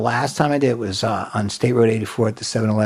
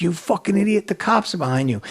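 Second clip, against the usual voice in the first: retold exasperation; 8 semitones higher than usual. Dealer warns him angrily, retold.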